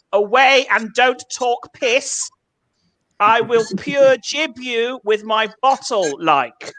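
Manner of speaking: put-on slow Scottish slang in a non-Scottish accent; Scots in own accent. Comic retells a Scottish threat, in his own accent. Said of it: "tell you this anecdote in my accent".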